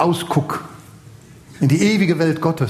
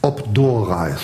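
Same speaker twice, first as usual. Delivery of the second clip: low-pitched quote in Dutch; Dutch pronunciation; 6 semitones lower, slower than usual. Shown as a demonstration. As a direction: read the sign out in Dutch. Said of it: "Ist holländisch".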